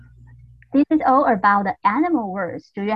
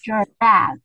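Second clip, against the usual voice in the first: leader call; 5 dB louder than usual. Shown as a demonstration. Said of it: "everyone repeat after me".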